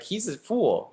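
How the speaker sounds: high-pitched quoted reaction; put-on high onlooker voice; imagined audience reaction. Voicing admiring audience reaction.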